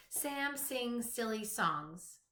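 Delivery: "Sam sings silly songs" said slowly, each opening S stressed; slow alliterative read. Shown as a demonstration. Teacher to young pupils, slow with each opening S stressed. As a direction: lean on the S that starts every word. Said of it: "all the words in the sentence have the same beginning sound".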